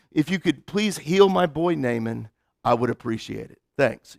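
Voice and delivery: soft, low, lightly voiced polite note; a hint of a king signing off sweetly; mock polite letter.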